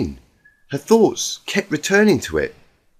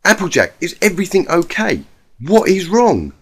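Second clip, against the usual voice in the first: worried; 5 semitones higher, 4 dB louder than usual. Acted. Twilight worried questions.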